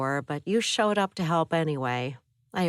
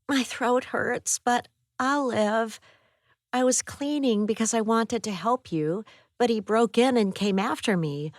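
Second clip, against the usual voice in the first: put-on young woman voice; 7 semitones higher than usual. A narrator's reading. Abby recounts the attack.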